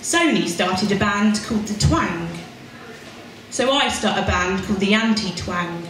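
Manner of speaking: measured spoken-word telling; poem performance. Acted. Poet reading her punk-band poem, wry and measured. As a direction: tell it with a wry punk edge.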